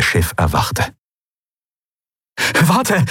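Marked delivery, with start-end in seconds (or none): 2.6-3.0 high voiced called warning; calling Kai. A narrator's reading. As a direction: call out to stop them, pitched high. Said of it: "rief Kai".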